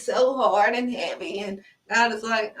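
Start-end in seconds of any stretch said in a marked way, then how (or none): 0.0-1.4 whiny, put-on strain; mock struggling. Mocking people who act like it's hard, mock struggling. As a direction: imitate someone overplaying a heavy load.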